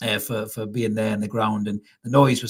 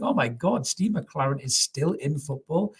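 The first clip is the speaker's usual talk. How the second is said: slow, higher mock astonishment at the bench; mock disbelief; 4 semitones higher, 3 dB quieter, slower than usual. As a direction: act out a stunned inner thought, drawn out. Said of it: "you just think".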